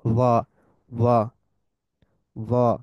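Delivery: ওয়া with tafkhim heaviness; heavy Arabic sound. Shown as a demonstration. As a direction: give ওয়া a heavy, deep Arabic vowel. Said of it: "Apply a deeper sound by raising the tongue slightly".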